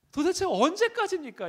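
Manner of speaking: the same plea pushed to a desperate yell; anguished shout. Retold or imitated. Repeats complaint louder.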